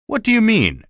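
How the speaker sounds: high startled question; surprised. Acted. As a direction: blurt it out in shock.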